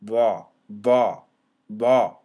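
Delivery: va, va, va repeated loud with a buzzing v; model pronunciation. Shown as a demonstration. Teacher drilling the letter for students, loud. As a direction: drill va firmly. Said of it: "It's like".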